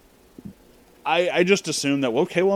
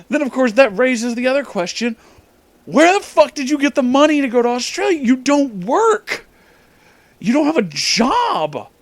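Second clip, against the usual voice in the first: incredulous high rant; 10 semitones higher, 4 dB louder than usual. Real, not acted. Ranting about friend's money.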